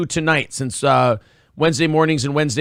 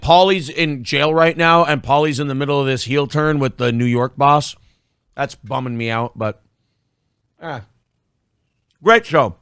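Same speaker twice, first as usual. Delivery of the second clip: mouth full; 2 semitones lower than usual. Real, not acted. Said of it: "Sorry, I'm still chewing this".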